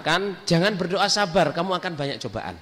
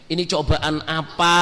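retold dismayed lament; 3 dB louder, slower than usual. Retold lament to God at temptation.

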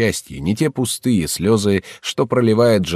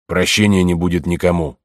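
отрывисто. Acted. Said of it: "сказал он отрывисто".

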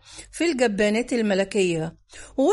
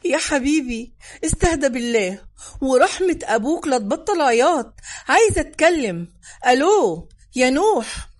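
put-on pleading with a crying child, building louder; 3 dB louder than usual. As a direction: beg the toddler to hush, then call into the phone. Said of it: "وقطز يقول متوسلا".

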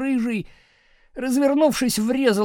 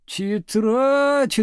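higher, stretched indignant exclamation; indignant outcry; 4 semitones higher, 4 dB louder than usual. A narrator's reading. Front-row girls objecting to teacher, indignant outcry. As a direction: exclaim it in protest. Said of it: "дружно возмутились девицы с передних парт".

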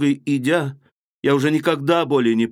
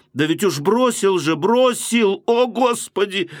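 climbing higher into a cry on бросил and Господи; anguished outcry; 7 semitones higher than usual. Acted. Sonya crying out in despair about his abandoned family. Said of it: "вскрикнула она".

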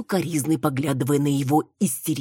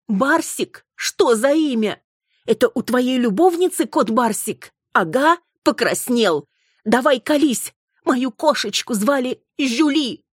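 accusing wife; 9 semitones higher, 4 dB louder than usual. Acted. Wife grills her husband about his lover, high and loud. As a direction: catch him out and press.

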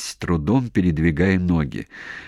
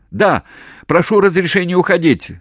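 loud, high urgent yell; shouting plea; 11 semitones higher, 6 dB louder than usual. Acted. Commander shouting permission to retreat.

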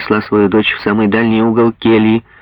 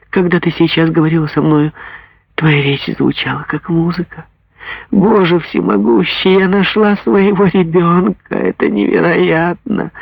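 higher, awed mother in joy; ecstatic mother; 7 semitones higher than usual. Acted. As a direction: praise God for finding her child. Mother rejoices at finding daughter.

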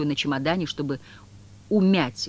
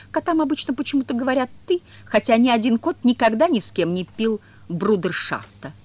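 flattered cat; 8 semitones higher, 7 dB louder than usual. A narrator's reading.

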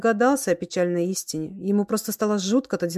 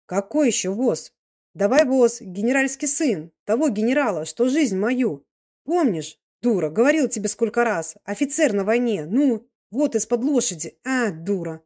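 higher, insistent peasant scolding; lightly voiced tipsy old man, impatient; 4 semitones higher than usual. Old man urges slow-witted woman to fetch cart, impatient scolding. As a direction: scold her in mildly exasperated bursts.

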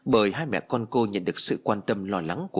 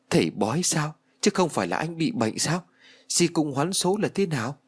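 higher, puzzled questioning; anxious disbelief; 5 semitones higher than usual. Acted. Ái doubting Phú's explanation, anxious disbelief. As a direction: question him in mild alarm.

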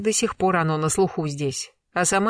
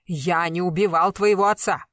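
pleading cry; 3 semitones higher than usual. Acted. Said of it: "Не кричите".

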